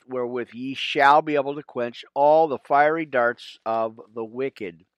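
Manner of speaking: measured King James reading; scripture reading. Real, not acted. Pastor reading Ephesians to his friends, measured and solemn. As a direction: read the armor verses with steady weight.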